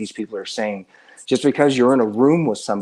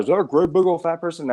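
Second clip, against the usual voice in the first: character impression; 7 semitones higher than usual. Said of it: "I'm doing an impression now".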